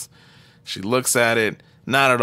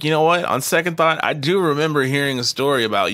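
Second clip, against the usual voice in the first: retold character line; 6 semitones higher, 3 dB louder than usual. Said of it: "he's like".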